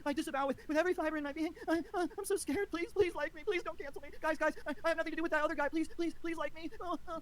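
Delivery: hammed-up grovelling imitation of a scared streamer; mocking grovelling impression. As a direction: beg pathetically like a coward. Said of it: "groveling, begging for forgiveness".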